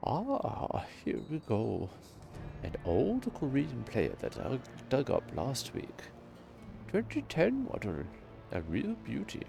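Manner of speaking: put-on old man voice. GM voices Shorty.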